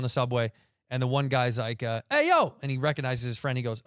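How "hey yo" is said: calling out. Retold or imitated. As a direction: yell it out to a friend you just spotted. Friend calls out on subway.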